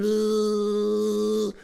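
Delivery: a thin buzzing fly noise through the lips. Retold or imitated. To himself, a fly pesters him over his Big Mac, buzzing sound. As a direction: buzz like a pesky little fly. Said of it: "And the fly said".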